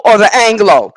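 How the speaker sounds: "Anglo" with a long o ending, pushed up loud; loud high "Anglo" as in Anglo-Saxon. Shown as a demonstration. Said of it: "The angel or the angle".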